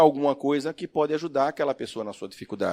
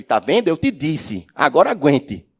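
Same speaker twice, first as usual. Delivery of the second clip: a louder, I-told-you-so parent; scolding reproach; 6 dB louder than usual. Retold or imitated. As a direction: rub it in like a stern parent. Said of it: "não sejamos aquele". (repreensão em tom de "eu te disse")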